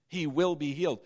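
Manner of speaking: "will" said firmly, as settled fact; strong, certain stress. Shown as a demonstration. Preacher telling listeners it is done, stressing "will". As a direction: declare it with firm weight on "will". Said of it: "You can't get any stronger than that".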